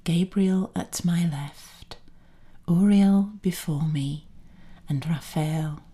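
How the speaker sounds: solemn invocation, each phrase set apart; prayer recitation. Acted.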